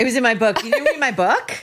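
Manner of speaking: mock her line with a laugh; laughing mockery. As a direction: laugh through the quote. Mocking quote, laughing.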